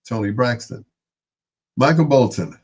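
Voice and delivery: breathless after a long list; running out of air, panting; out of breath. Real, not acted. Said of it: "All right, I'm out of breath".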